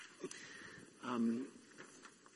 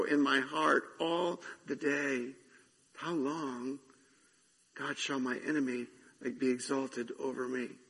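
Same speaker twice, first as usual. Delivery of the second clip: solemn psalm reading, lamenting; scripture reading. Acted. Pastor reading Psalm thirteen to the congregation, solemn and lamenting. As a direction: read the lament with weight.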